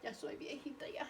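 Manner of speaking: whispered mock old-lady lament. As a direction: sigh it like a frail old woman. Jokes about being old.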